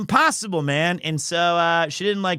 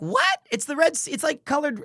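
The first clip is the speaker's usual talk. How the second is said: incredulous what; 7 semitones higher than usual. Retold or imitated. Disbelief she doesn't know.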